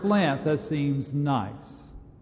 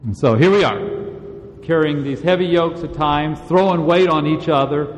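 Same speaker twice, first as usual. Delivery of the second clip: loud, driving sermon delivery, leaning hard on key words; fervent preaching; 7 dB louder than usual. Acted. Preacher urging the congregation, in a loud, insistent sermon voice. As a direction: preach it out to the congregation with full force.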